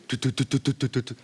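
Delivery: soft rhythmic mock engine noise; imitated engine thudding. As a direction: mimic the ship's engine vibrating. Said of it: "with screaming noise and vi-, much vibration".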